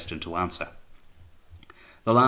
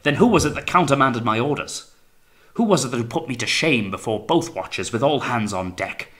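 loud, high, hammering questions; angry interrogation; 5 semitones higher, 7 dB louder than usual. A narrator's reading. Captain demanding who shamed him before the watches, angry. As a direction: fire the questions as accusations.

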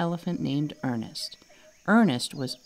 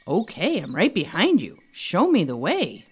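excited. Acted. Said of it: "Ernest said excitedly".

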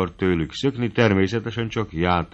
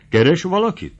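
a suspicious, probing question, pitched higher; 10 semitones higher, 6 dB louder than usual. A narrator's reading. Krakner questions Mari suspiciously, suspicious tone. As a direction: asks like he smells a secret. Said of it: "kérdi a gyanakodó Krakner".

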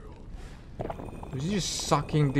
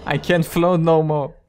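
mock boss voice; 3 semitones higher, 4 dB louder than usual. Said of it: "He's like".

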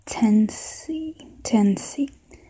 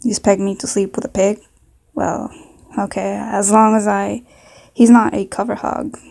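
put-on southern accent. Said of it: "maybe a southern accent".

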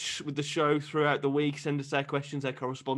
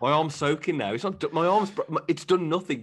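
higher, louder mock kid whine; whiny kid complaint; 4 semitones higher, 4 dB louder than usual. Kid complaining to the teacher, whiny and louder.

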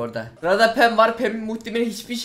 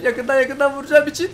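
higher and louder, rising at the end; building excitement chant; hyped repeat; 6 semitones higher, 4 dB louder than usual. Real, not acted. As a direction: pump yourself up with it. Repeats the line, third take louder.

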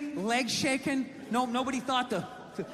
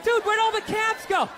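mock panicky white guy; 8 semitones higher than usual. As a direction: play a scared tourist lost uptown.

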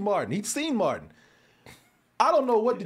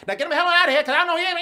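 loud, higher angry order; father shouting; 9 semitones higher, 7 dB louder, much faster than usual. Retold or imitated. Father yelling to get the friend out, angry shout. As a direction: bark the order like a crazed dad. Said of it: "he just stops making words".

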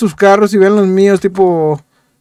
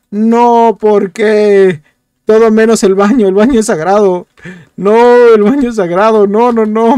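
outraged protest; 3 semitones higher, 4 dB louder than usual. Real, not acted. Lands on the toilet, protests.

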